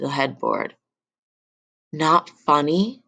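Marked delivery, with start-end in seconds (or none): 1.9-3.0 yelled. Acted. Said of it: "he yelled".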